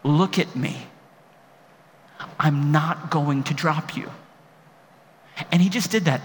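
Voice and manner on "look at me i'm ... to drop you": patient dad. Retold or imitated. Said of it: "My dad still just patiently".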